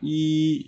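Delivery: "I" held long and level; first tone. Shown as a demonstration. Teacher recapping the number one, "I" in level first tone. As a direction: keep "I" even, first tone. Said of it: "dibaca nada pertama".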